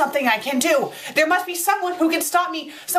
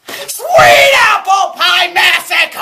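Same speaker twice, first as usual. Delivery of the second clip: slow, loud, higher bellow; dramatic title shout; 4 semitones higher, 11 dB louder, much slower than usual. Acted. Critic announcing the fanfic title, slow shout. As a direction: announce it like doom.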